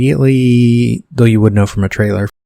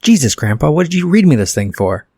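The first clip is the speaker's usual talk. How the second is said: higher-pitched whining kid impression; exasperated kid pitched up at grandpa; Fred Savage; 6 semitones higher than usual. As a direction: raise the voice into an annoyed boy's. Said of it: "switches to Fred Savage impression".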